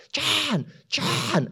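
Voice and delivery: very high, urgent calls of the name; high calling out. Retold or imitated. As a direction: call after him high and urgent. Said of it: "screaming at the top of my lungs".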